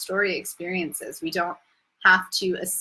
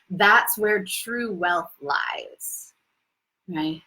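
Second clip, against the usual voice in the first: whispered; much slower than usual. Acted. Intimate spiritual point.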